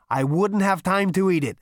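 high, loud hungry eagerness; ravenous Zaphod. Acted. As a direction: sound starving for it. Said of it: "he said ravenously".

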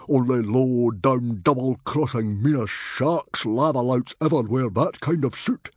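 loud, high, emphatic denunciation; angry exclamation. A narrator's reading. Stoic denounces the stranger's suit, angry shouting. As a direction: pile up the insults furiously. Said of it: "exclaimed Stoic".

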